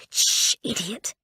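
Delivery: urgent whispered hiss, slow; hissed shush. Acted. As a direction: hush her sharply under your breath. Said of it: "and Will hissed".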